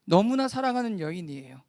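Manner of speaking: firm, projected preaching voice; emphatic declaration to the congregation; full-voiced repetition. Real, not acted. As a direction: bring the words back out at full voice. Repeats hushed words at full voice.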